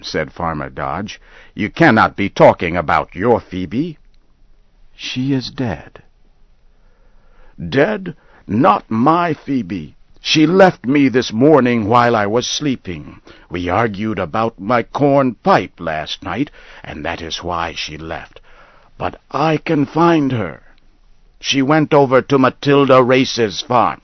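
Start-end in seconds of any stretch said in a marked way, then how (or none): 1.5-6.0 lightly voiced Farmer Dodge stating the facts; blunt farmer. Dodge tells Henry the truth. 7.6-24.0 higher, louder, insistent denial; Henry fervently insisting his wife just left; agitated old man. Acted.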